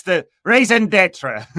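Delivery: mock the French of "raison d'etre" with a big comic French accent; hammed-up French accent. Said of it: "ham it up a bit".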